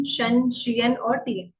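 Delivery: "शन, शियन और टीएन" drawn out slowly; careful teacher demo; slow suffix demo. Shown as a demonstration. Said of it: "तो इनको हमें ऐसे बोलना है".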